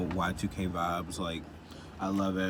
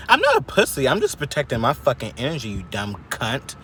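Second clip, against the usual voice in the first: angry comeback; 2 semitones higher, 5 dB louder than usual. Real, not acted. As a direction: fire back at the haters.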